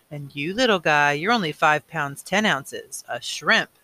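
slow, doting voice for a tiny newborn; special baby voice. Acted. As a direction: coo it slowly to the little guy. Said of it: "That's the special voice he uses with Gabriel".

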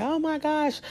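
high, squeaky imitation of a tearful friend; mock crying friend. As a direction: play the crying friend on FaceTime, lightly. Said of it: "on FaceTime crying".

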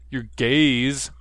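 "gaze" said clearly with a buzzing z ending. Shown as a demonstration. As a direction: stress "gaze", end firmly on z. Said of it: "I said gaze with a Z".

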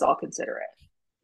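tossed off with an eerie little smirk; a retold smirk, low-key and unsettling. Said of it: "kind of smirks and says".

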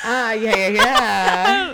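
cracking squeal on the yeahs. Real, not acted. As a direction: voice breaking up high and loud. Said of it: "My voice went".

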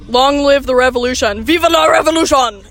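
rousing revolutionary rallying cry; fiery revolutionary speech. Pretend. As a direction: shout it like a rebel leader. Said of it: "I'm a complete traitor to the Union".

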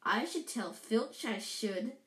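slow, mock-virtuous tone; saintly voice. Poltergeist threatening to tell Filch, mock saintly. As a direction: say it with put-on piety. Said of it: "said Peeves in a saintly voice".

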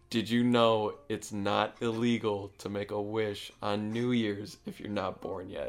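slow, deliberate retelling; slow repeat. Retold or imitated. Dreamer repeating little cousin's words on request, slow and deliberate. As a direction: lay the quote out slowly for the listener. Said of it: "Hold on, one more time".

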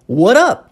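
"what up" as "wharup", with a tapped R; T turned to R. Shown as a demonstration. Teacher showing another variant, T becomes R. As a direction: drop the S and tap the T of "what up" like an R. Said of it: "eu posso retirar o S".

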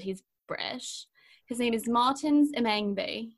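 slow, hushed put-on British accent. Shown as a demonstration. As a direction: sell the name with a breathy British accent. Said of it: "I have to say it with an accent".

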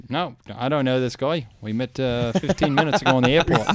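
imitated Australian accent. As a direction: quote the Australian guy in his accent. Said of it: "he had an Australian accent".

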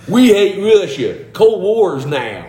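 high, slow, hammed-up Russian accent. Redoing the wrestling storyline's slogan, mock Russian accent. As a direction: declare it slowly as a cartoon Russian. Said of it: "You get a Russian accent".

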